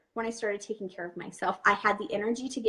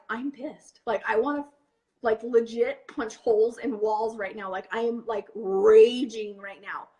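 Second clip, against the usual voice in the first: retold rage; 2 semitones lower than usual. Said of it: "And I'm like".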